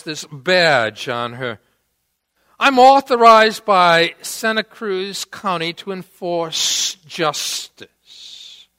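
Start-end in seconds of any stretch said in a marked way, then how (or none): 2.6-8.7 authoritative police officer. Retold or imitated. Officer showing her badge to drunk guys, firmly authoritative. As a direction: imitate an officer's firm, loud declaration.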